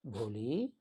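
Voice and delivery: a touch of tenderness; lovingly calling. Acted. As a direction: call भोली gently, with love. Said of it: "ऐसे बुला रही है बहुत प्यार से".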